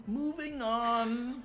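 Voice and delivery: high, slow laughing quip; laughing punchline. Acted. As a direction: drag it out laughing.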